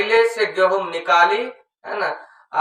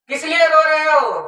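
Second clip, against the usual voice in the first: mother asking; 6 semitones higher than usual. Acted. Mother asks son why.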